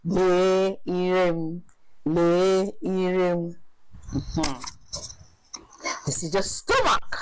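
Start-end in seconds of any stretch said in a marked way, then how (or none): 0.1-3.6 slow model phrase. Shown as a demonstration. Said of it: "slow model drill".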